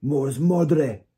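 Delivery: loud, high incantation; booming magical command in an altered voice; incanting a spell. A narrator's reading. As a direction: cry out the spell with full force. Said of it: "what sounded like a spell".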